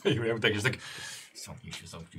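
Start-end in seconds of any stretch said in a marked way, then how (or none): 1.4-1.9 hushed. Real, not acted. Shushing another player.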